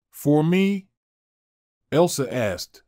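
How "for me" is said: higher, louder, disbelieving; bewildered. A narrator's reading. Elsa stunned that Nolan did it for her, disbelieving. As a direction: ask as if you can't believe it's for you. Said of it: "not understanding".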